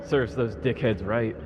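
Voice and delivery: measured, deliberate storytelling read; story narration. Acted. Podcast host reading his story to co-host, dry narration. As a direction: read it like a wry personal essay. Reads a written story segment.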